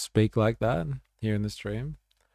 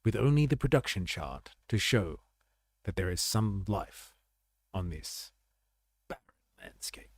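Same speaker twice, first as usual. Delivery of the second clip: hushed wildlife narrator, fading to a whisper; nature documentary; 4 dB quieter than usual. Pretend. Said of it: "it sounds like a wildlife narrator".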